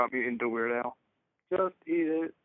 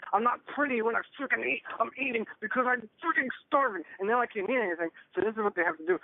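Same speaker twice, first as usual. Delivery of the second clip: rising, heated rant that climbs higher; angry rant; 4 semitones higher than usual. Acted. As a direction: vent like he's furious at the insurer. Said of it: "get really mad and nasty".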